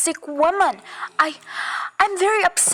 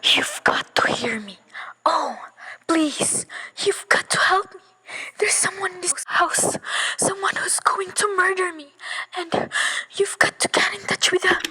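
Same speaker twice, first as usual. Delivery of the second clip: pleading whisper; 3 semitones higher than usual. Acted.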